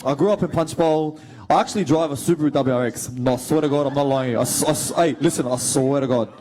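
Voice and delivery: broad Punchbowl street accent. Shown as a demonstration. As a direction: insist you're telling the truth in a Punchbowl accent. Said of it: "Can you please do the Punch Bowl accent?".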